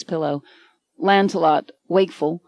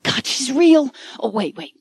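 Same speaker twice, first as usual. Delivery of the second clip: shocked; 6 semitones higher than usual. A narrator's reading. Mike touches her, shocked.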